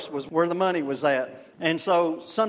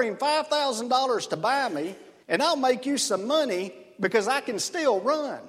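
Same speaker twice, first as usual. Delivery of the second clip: lightly voiced horse, pitched higher; talking horse; 4 semitones higher than usual. Joke horse pleading with the jogger, a light higher horse voice. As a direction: pitch the horse's scheme eagerly, a bit higher. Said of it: "the horse replies and says".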